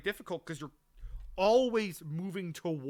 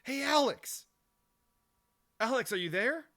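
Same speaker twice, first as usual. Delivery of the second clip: calling enemy soldier; 9 semitones higher than usual. Retold or imitated. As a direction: call out to lure him out. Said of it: "in a normal human voice instead of the robotic one they have".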